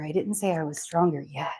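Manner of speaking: breathy whispered aside. Real, not acted. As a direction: whisper it under your breath. Quip after exercise break.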